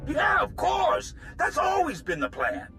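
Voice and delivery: high, emphatic agreement; anxious to please; over-eager assurance. Acted. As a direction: insist eagerly in a high voice to placate the boss. Accused man hastily agrees.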